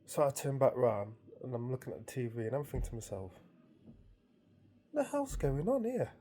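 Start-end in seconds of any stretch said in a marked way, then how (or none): 4.9-6.1 high, slow, bewildered question; baffled. Retold or imitated. Thinking to himself at the TV, baffled. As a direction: draw it out high, mock bafflement.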